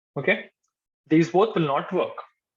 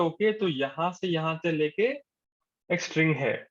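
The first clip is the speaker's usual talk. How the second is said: JavaScript thinking aloud; much faster than usual. Pretend. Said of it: "JavaScript will think that".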